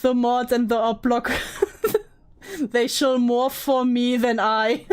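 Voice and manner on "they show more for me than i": words drawn out through a laugh; slow, amused, breaking into laughter. Real, not acted. Streamer joking with chat, laughing.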